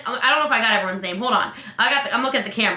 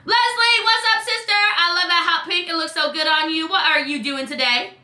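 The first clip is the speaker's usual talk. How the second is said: gushing greeting; 3 semitones higher than usual. Shown as a demonstration. Coach dictating a message to her sister-like friend, gushing. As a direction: gush at a friend with high energy. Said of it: "This is how I talk".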